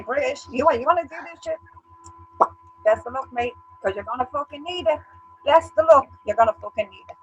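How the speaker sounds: high, mocking taunt at the British. Irish woman taunting the British, mocking. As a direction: sneer it like a cocky challenge.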